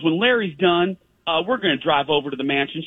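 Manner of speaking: lightly voiced guide setting out the plan; imitating Sally. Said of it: "She goes".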